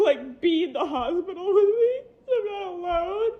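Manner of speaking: tearful laugh, voice wavering; laughing through tears; crying while talking. Real, not acted. Mother recalls the doctor's questions, crying and laughing.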